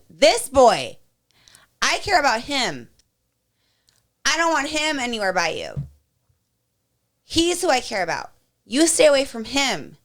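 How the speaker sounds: slow, firm, each word set down; mother warning a bully off her son, firm and slow; firm protective mother. Retold or imitated. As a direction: warn the boy off her son. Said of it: "I said".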